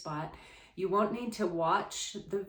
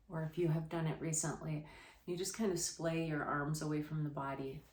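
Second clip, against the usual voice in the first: softer, unhurried yoga guiding voice with long pauses; guided relaxation; 3 dB quieter than usual. Real, not acted. Yoga teacher settling listeners on the floor, guided relaxation. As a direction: settle them gently into the pose, quietly.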